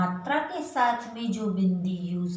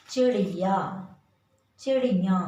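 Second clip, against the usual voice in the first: emphatic model word; 5 dB louder than usual. Shown as a demonstration. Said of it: "इसी तरह से देखिए".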